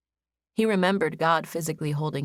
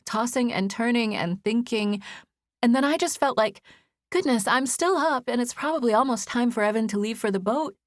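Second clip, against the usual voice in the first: put-on higher, tired, anxious young woman; a weary woman rushing her explanation; 5 semitones higher than usual. Narrator voices Izzy, tired.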